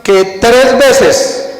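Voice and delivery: slow, stretched out que tres veces; emphasis on tres. Shown as a demonstration. Preacher stressing tres for the congregation. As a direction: lean hard on tres, drawn out. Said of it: "póngale énfasis".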